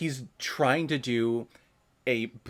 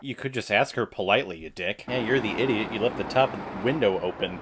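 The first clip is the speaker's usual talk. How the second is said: usual speaking voice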